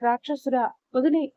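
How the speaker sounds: a mother half-shouting at her son to stop; desperate shout. Retold or imitated. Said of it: "అని అరుస్తూ". (కొడుకుని ఆపమని అరిచే తల్లి, మోస్తరు అరుపు)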